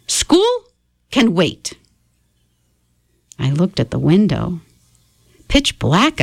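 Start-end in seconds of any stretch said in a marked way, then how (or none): 0.1-1.7 Grandma. Acted. Grandma dismissing school.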